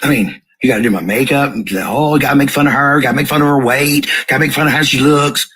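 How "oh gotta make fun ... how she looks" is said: higher, repetitive mocking list; sarcastic jeer, pitched up. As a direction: mimic the bullies' compulsion with scorn. Mocking what the page does to her.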